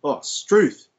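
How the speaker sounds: "struth" said as Aussie slang exclamation; slang demonstration. Shown as a demonstration. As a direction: exclaim "struth", truth with an S in front. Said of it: "to describe a tough day, you go".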